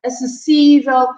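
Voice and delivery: "Acessível" with the third syllable, "sí", leaned on; stress on accented I. Shown as a demonstration. Teacher explaining written accents, stress on the í of "Acessível". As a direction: hit the í of "Acessível". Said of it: "put the accent on that I".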